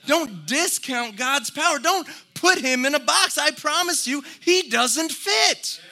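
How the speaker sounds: impassioned sermon build; rising preaching. Acted. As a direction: push the crowd harder each line.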